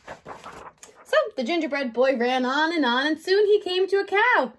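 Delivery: put-on measured, expressive read-aloud to children; story narration. A narrator's reading. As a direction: read a picture book to a young class.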